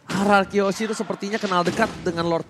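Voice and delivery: normal talking voice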